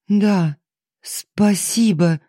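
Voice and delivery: squeezed out high through held-back sobs; strained, holding back tears. A narrator's reading. Daughter-in-law forcing thanks to her father-in-law, holding back a sob. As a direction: force the thanks out past a lump in the throat. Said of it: "выдавила Алиса, усилием воли подавляя рвущееся наружу рыдание".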